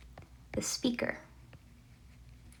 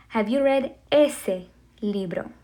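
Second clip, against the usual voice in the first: whisper. Shown as a demonstration. Teacher demo sentence.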